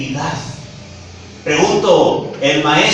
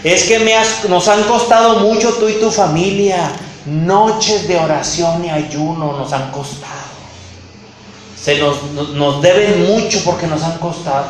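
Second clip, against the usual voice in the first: mock guilt-trip quote. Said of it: "les decían".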